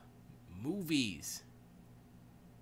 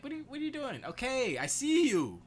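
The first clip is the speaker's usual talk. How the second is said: high retold bewilderment, getting loud; exasperated acknowledgement; 14 semitones higher, 7 dB louder than usual. Owner answering the barking cat, exasperated and high.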